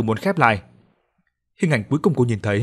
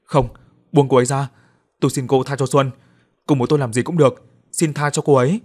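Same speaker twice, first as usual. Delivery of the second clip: raised, desperate begging cry; pleading shout; 3 semitones higher, 5 dB louder than usual. Acted. Husband begging the captor to spare Xuân, pleading shout. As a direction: beg her to let Xuân go, voice pushed up. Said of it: "Hoài hét lên".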